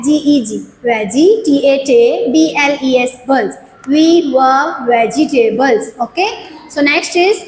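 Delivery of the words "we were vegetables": slow syllable reading. Shown as a demonstration. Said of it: "with syllables".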